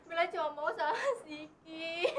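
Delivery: fake sobbing. Bella pleading, crying.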